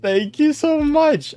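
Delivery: high, slow squeal of thanks; gushing gratitude. Real, not acted. Streamer to donor, gushing gratitude.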